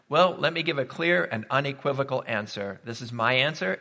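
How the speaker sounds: normal talking voice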